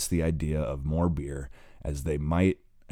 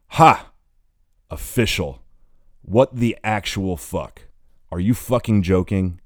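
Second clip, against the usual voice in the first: sharp scoffing laugh, then a louder angry tirade; scoff, then let the anger spill out; bitter outburst; 4 semitones higher, 7 dB louder than usual. Acted. He explodes at breakup news.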